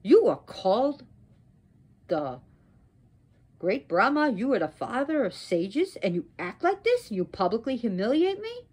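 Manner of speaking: indignant dressing-down; angry. Acted. Wronged wife scolds great Brahma before everyone, angry. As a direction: scold with rising, incredulous phrases. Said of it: "And angry".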